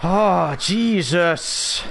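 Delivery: startled yelp. Real, not acted. Startled during fight.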